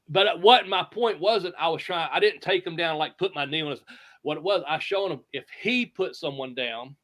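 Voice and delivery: normal talking voice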